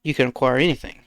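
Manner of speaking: even, measured explainer delivery; reading off a script. Real, not acted. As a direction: deliver it like a prepared speech. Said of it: "Sounded like you just read off of the script".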